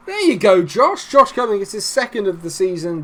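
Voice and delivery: excited goal shout. Real, not acted. Gamer cheering the substitute's goal, excited. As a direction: burst out as the sub scores. Late goal scored in football game.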